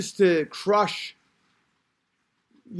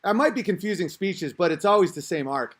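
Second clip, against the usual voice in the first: ordinary talk, nothing marked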